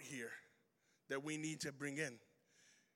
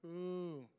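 mock silent crickets; 4 dB quieter than usual. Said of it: "here's what I heard from you".

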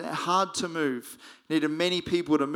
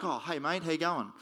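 offhand, quieter mock greeting; mock casual greeting; 6 dB quieter than usual. Preacher mocking a calm reaction to an angel, offhand and quiet. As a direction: toss it off like nothing happened. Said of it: "don't tell me that you're like".

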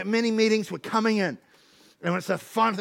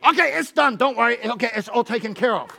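put-on Chinese accent; 2 semitones higher, 3 dB louder than usual. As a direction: settle the deal briskly in mock Chinese accent. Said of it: "in this accent".

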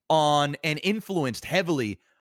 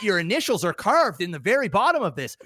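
higher, laughing through the reveal; teasing interviewer; 5 semitones higher than usual. Retold or imitated. Interviewer showing the carved initials, laughing higher mock reveal. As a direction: play the sly reveal while cracking up. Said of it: "And he'll go".

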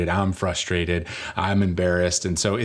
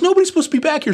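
very high, loud mock outrage; imitated scolding yell; 7 dB louder, much faster than usual. Costumed worker warns off intruders, imitated scolding yell. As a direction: shout it like a hammed-up telling-off.

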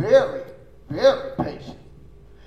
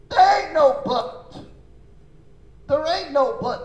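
loud, raised preaching voice; emphatic rebuttal; 4 semitones higher, 5 dB louder than usual. Real, not acted. Preacher rejecting a congregant's "but", emphatic rebuttal. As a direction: shut the excuse down forcefully.

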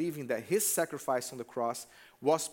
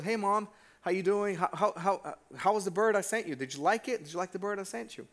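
pitched up, bright-eyed check-in with mom; eager son on the phone; 6 semitones higher than usual. Retold or imitated. Son phoning his mom about the bird, eager high voice. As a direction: play the son calling home, hoping she loved the gift. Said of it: "he goes".

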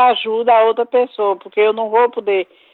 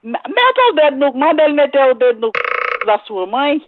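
higher, fast, angry retort; 6 semitones higher than usual. Real, not acted. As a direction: snap back at the caller. Woman furious at prank caller.

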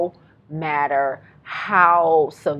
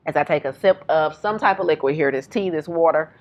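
talking between sips of tea; while sipping a drink. Real, not acted. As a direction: speak around a sip of tea. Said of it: "moments of silence that sound like this".

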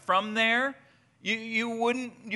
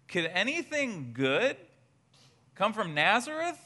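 skeptical; 3 semitones higher than usual. Retold or imitated. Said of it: "you can hear the skepticism and doubt".

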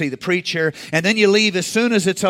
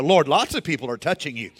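overly helpful Peter; 3 semitones lower than usual. Acted. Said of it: "Peter's always helpful".

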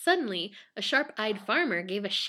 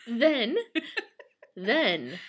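laughing; 3 semitones higher, 5 dB louder than usual. Shown as a demonstration. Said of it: "I should say it angrier".

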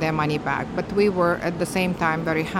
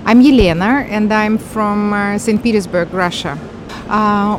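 worn tape copy; 2 semitones higher, 5 dB louder than usual. Real, not acted. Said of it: "Please excuse the audio quality of the following".

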